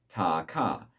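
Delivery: ta ka slowly, ta then ka; double tonguing ta ka. Shown as a demonstration. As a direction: show the two syllables ta ka slowly. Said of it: "just say".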